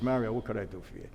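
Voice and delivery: settled, unhurried question to Mario; relaxed. Retold or imitated. Back at the table after sending Jerry away, relaxed and soft. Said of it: "Now I'm relaxed".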